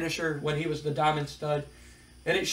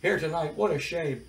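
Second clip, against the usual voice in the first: mock-sympathetic announcer, higher at the start; lightly sarcastic interviewer; 3 semitones higher than usual. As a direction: lay the fake pity on thick. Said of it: "Mean Gene kinda sarcastically says".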